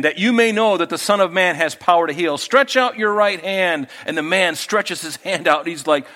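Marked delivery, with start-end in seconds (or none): 0.0-3.9 Jesus commanding. Retold or imitated. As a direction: speak it with calm authority. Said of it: "I can almost hear him saying".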